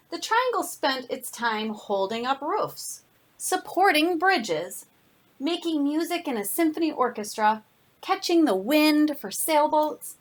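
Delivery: lively storybook read-aloud with slowed phrases; reading to children. Acted. Teacher reading a picture book to her class, animated storytelling. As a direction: tell it to a class of kids, savoring each line.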